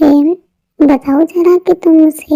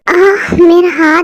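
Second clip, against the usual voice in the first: slow aching moan, rising at the end; pained cry; 3 semitones higher, slower than usual. Acted. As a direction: moan it as if the hand throbs. Hand hurts again.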